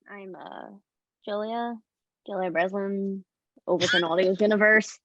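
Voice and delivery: lightly voiced character, halting between phrases; Julia Breslin. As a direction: answer haltingly, a little low. Improvising Julia answering Sticker.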